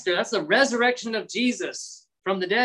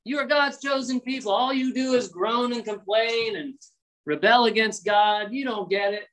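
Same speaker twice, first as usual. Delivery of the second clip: prideful scolding, starting high; mock arrogance; 4 semitones higher than usual. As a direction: imitate someone looking down on the failures. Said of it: "that's arrogance, that's pride".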